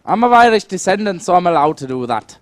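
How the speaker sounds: put-on lively Irish accent. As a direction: keep casting in an Irish accent. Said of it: "can't take myself seriously in this normal accent".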